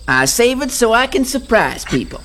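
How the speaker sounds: put-on showing off a Southern accent. Dragonfly tells the gang about a secret Southern accent. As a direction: keep the Southern accent going, amused. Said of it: "you really do have a southern accent".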